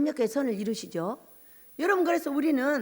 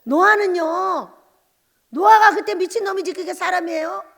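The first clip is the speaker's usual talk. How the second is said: fervent exclaiming; 4 semitones higher, 8 dB louder than usual. Real, not acted. Preacher rousing the congregation, loud fervent exclaim. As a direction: preach it with full force.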